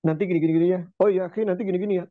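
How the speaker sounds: low, forceful mock briefing; like going to war. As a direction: imitate brusque, businesslike orders as if heading to battle. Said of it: "kayak orang mau perang ya".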